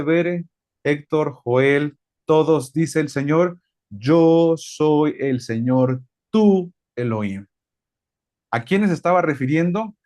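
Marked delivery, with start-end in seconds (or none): 3.9-7.5 slow, solemn voice of God from the mountain; voice of the Lord. Acted. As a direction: let each word of the Lord land slowly. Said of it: "se escucha la voz del Señor que dice". (voz solemne y lenta del Señor)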